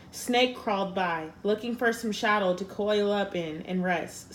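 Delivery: unhurried storybook narration; story narration. A narrator's reading. Reader tells the Lizard and Snake fable, storybook style. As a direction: read it like a fable to listeners.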